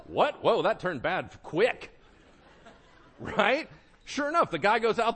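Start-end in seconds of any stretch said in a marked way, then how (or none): none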